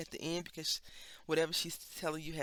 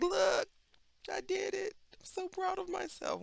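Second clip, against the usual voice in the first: high, loud triumphant cry; proud boast; 5 dB louder than usual. Retold or imitated. Thriving months later, proud mock boast. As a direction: crow about the win. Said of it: "You're like".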